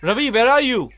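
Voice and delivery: high, drawn-out call for someone. Acted. Looking for his friend Ravi, calling out. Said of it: "Why are you shouting like this?".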